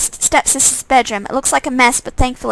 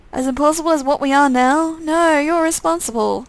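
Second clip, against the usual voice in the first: menacing undead twin; 4 semitones higher than usual. Acted. Twin character voice.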